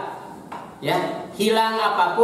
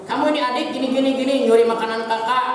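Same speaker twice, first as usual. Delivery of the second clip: hammed-up scolding of a little brother, pitched up; mock scolding, higher; 5 semitones higher, much faster than usual. Big sibling scolding little brother, mock scolding. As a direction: play a big sibling nagging, raised pitch.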